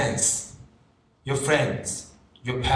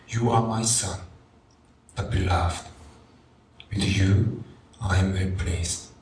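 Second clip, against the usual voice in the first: tender heavenly voice; 5 semitones lower than usual. Acted. God speaking to Jesus on the cross, intimate and tender. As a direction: lower and tender, an intimate father's voice. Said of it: "Listen to this voice over and over again".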